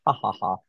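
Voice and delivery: dry, spelled-out "ha, ha, ha"; mock laugh. Author brushing off the professor's book suggestion, mock laugh. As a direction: fake a dismissive little laugh. Acted dismissive laugh in retelling.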